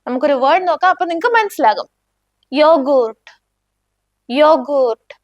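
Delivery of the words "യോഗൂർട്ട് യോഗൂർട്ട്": "യോഗൂർട്ട്" begun with a y, long oo in goort; German ya sound. Shown as a demonstration. Teacher modelling J words for learners, "യോഗൂർട്ട്" with a y onset. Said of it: "യാ sound അല്ലേ വരുന്നത്".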